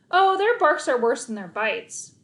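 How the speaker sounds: cheerful, breezy brush-off; with a smile. Acted. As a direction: smile through it. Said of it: "I said with a smile".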